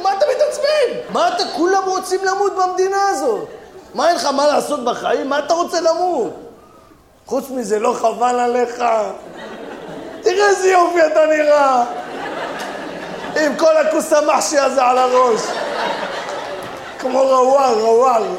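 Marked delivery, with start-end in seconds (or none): 0.0-3.5 yelling. Acted. Comic quarrel, yelling back. 10.2-18.2 mocking shout. Mocking the hat, loud.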